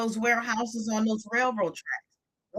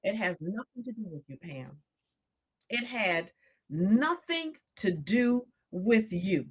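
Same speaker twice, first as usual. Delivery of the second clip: gentle divine voice. Retold or imitated. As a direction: lay it down gently, almost fading. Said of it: "what the Holy Spirit told me".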